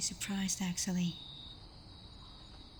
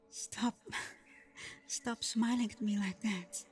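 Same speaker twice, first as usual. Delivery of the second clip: flustered laugh through the words; embarrassed giggle; laughing protest. Acted. Flustered by date request.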